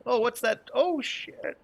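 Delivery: high startled yelp; sudden alarmed cry. Acted. GM voices startled bystander at blast.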